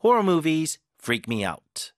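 Horror movies freak me out, Horror punched, slow; stress on Horror. Shown as a demonstration. Teacher's final stressed reading for students. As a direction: read it with force on Horror. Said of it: "이렇게 힘을 줘서 읽으시면 됩니다".

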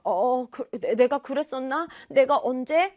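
stammering, mildly taken aback; halting, acted self-doubt; flustered. Boy caught out by sister, acting flustered. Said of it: "지후가 당황을 하게 됐어요".

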